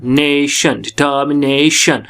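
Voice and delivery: डिटर्मिनेशन with a long, stressed ने; डिटर्मिनेशन said slowly, weight on ने; primary stress on ने. Shown as a demonstration. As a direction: lean on the ने of नेशन and डिटर्मिनेशन, stretching it. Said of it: "अगर primary देनी थी तो यहीं लगनी थी".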